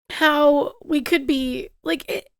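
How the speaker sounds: halting, stumbling words; losing the words while upset; stammering. Real, not acted. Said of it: "I'm, like, stammering".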